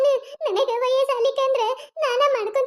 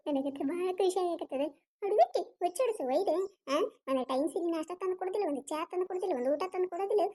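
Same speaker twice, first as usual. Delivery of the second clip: gloating aside; 5 semitones lower, 9 dB quieter than usual. Acted. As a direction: savour the win under your breath. Mother-in-law gloats after the fight. (ಮೆಲ್ಲಗೆ ಖುಷಿಯಿಂದ ಗೊಣಗುವ ಧ್ವನಿ)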